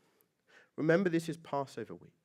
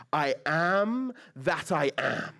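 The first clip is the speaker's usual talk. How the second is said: booming God voice; 2 semitones higher, 3 dB louder, much slower than usual. Acted. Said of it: "This booming voice".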